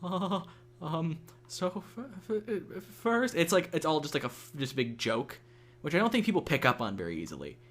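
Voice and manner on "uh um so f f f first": high, soft mock stammer; hammed-up nervous stutter, pitched up; pretend awkwardness. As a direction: fumble it on purpose, stuck on the first sound. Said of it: "pretend to be all, like".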